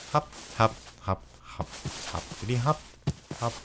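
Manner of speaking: quiet, playful little hops; hushed hopping sounds. Real, not acted. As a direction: murmur along with each jump. Hopping along in the game.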